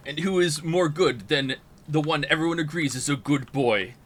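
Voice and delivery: mock-serious late-night show host; Night Springs narrator. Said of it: "Is it the Simpsons nerd voice?".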